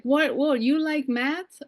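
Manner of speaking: retold matter-of-fact query; practical career adviser. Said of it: "So they're like".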